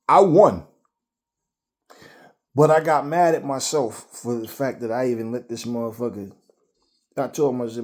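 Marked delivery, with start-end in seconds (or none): none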